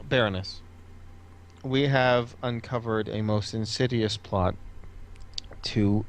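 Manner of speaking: measured, weighty courtly address; formal warning. Acted. Cullimore reveals the plot to the baroness, grave formality. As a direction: pause deliberately before the key words.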